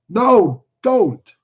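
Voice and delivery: high, loud burst; angry. Acted. Simple man turns on struggling woman, angry cry. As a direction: cry out in sudden frustration. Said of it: "Lenny then grew angry".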